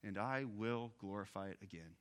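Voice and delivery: a lightly voiced note of defiance, I stressed; the Father answering with quiet resolve in "I will glorify it again". Preacher voicing the Father from heaven, mildly defiant. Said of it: "a voice in my mind of defiance".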